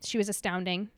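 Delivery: tearful letter read aloud; crying while reading. Real, not acted. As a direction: read through real tears. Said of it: "she's already sobbing".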